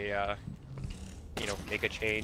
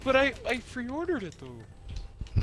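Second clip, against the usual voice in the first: put-on Canadian accent; 11 semitones higher, slower than usual. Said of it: "Why do you turn Canadian?".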